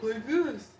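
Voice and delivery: lightly mimicked odd voice; mock how the woman talks; a hint of put-on voice; imitating a coworker's voice. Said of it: "I've never seen a woman talk".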